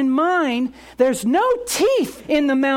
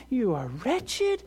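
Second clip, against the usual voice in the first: accuser's voice; 4 semitones higher than usual. Acted. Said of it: "with this voice of saying".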